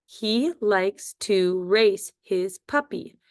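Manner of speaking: slow, even read of the whole sentence; slow dictation. Shown as a demonstration. Teacher reading the sentence slowly to pupils. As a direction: read it slowly for the class to write. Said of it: "Our first sentence is".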